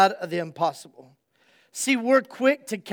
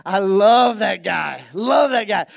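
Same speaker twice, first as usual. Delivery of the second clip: tag; 4 dB louder, slower than usual. Real, not acted. Fond outburst after the imitation.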